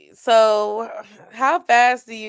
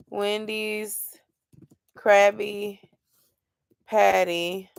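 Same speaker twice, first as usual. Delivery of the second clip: typing it out; much slower than usual. Real, not acted. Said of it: "I'm about to Google it".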